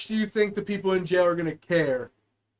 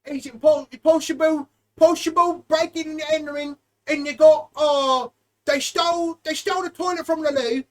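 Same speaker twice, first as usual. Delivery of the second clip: mock dispatcher; 3 semitones higher than usual. Dispatcher radio call acted.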